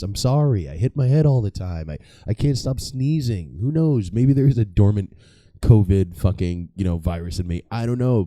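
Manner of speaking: high, anxious plea to strangers; mock pleading. Pleading with subway riders.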